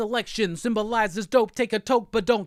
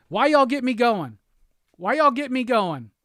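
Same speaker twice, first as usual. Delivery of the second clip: louder, hyped-up repeat; excited; 3 semitones higher, 4 dB louder than usual. Real, not acted. Host getting hyped, asking the chat why they started this. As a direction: throw it out twice, fired up. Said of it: "excited repeated outburst".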